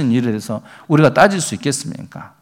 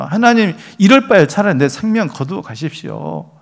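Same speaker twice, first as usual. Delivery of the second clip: higher, exasperated imitation of a complaint; irritated plea; 5 semitones higher than usual. Elijah begging God to take his life, exasperated. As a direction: sound fed up, pitched higher. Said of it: "사실은 짜증 섞인 말로".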